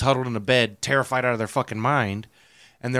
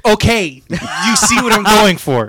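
excited; 8 semitones higher, 9 dB louder than usual. Real, not acted. Excited explaining.

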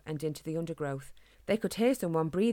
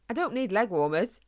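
put-on quick, slightly higher boy's voice; young hedgehog voice; 4 semitones higher, 4 dB louder than usual. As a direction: blurt it out like an eager kid. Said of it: "Harris quickly replied".

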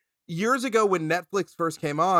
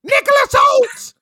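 shouted much higher, slow hammed-up Michael Caine; 11 dB louder than usual. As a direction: bellow the name as a mock Michael Caine. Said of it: "say Nicholas Hoult in the Michael Caine voice".

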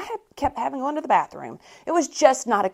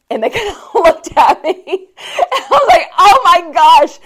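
much higher and louder, half laughing, half crying; breaking into laughing sobs; laughing through tears; 7 semitones higher, 10 dB louder than usual. Real, not acted. Recalling the marathon meltdown, laughing through tears. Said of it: "And I burst into tears".

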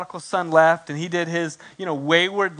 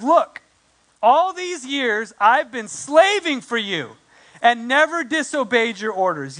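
high, aggrieved whine, slow at first; a big brother complaining to his father, high and sulky; 3 semitones higher than usual. Retold or imitated. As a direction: sulk it up high like a resentful son. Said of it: "he complained".

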